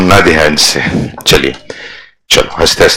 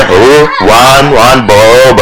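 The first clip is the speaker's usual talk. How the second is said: slow, drawn-out higher-pitched syllables; exaggerated stretched-out sing-out; mocking writing imitation; 5 semitones higher, 3 dB louder, much slower than usual. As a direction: mimic someone labouring over each word. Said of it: "ऐसा लिखता है क्या?".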